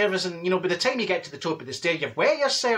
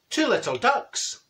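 slow, sung-out number call; drawn-out bingo patter; bingo caller; 3 semitones higher, slower than usual. Acted. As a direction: stretch the call out across the hall.

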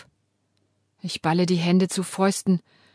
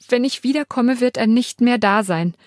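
tearful; 4 semitones higher, 4 dB louder than usual. Acted. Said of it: "Jetzt schluchze ich haltlos".

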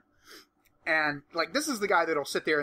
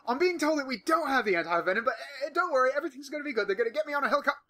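much higher, chirpy cheerful showman voice; mock Steve Irwin; 10 semitones higher, faster than usual. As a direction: play the brave host calmly brushing off a deadly bite. Imitating Irwin bitten on camera.

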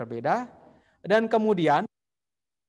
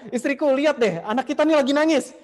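higher and louder, calling his wife over; excited calling out; 9 semitones higher, 6 dB louder than usual. Retold or imitated. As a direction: call her over, eager and thrilled. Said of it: "Dia panggil istrinya". (suami memanggil istrinya dengan bersemangat, lebih tinggi dan keras)

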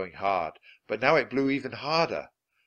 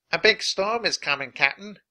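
higher, louder call of alarm; worried pirate warning; 8 semitones higher, 5 dB louder than usual. A narrator's reading. Pirate warns the captain of a storm, alarmed. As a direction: warn the boss urgently.

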